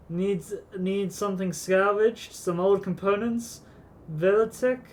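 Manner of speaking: a hint of a gruff old sea dog; mildly hammed-up pirate shopkeeper. Voices old shopkeeper Scotty.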